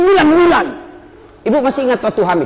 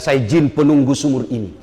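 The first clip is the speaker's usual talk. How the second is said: a hint of a lower jinn voice, chuckling; lightly voiced jinn; 7 semitones lower than usual. Jinn of the well speaks.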